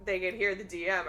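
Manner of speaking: usual speaking voice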